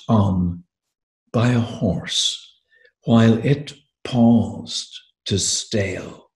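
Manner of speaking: slow, deliberate poem recital with long pauses; measured poet's reading voice; poetry reading. Acted. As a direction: read it as verse, weighing each phrase. Reads second poem aloud.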